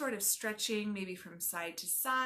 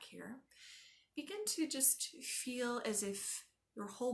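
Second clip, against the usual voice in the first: calm, measured body-scan instruction; yoga teacher talking a class into rest; guided relaxation. Acted. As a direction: ease them into stillness with pauses between instructions.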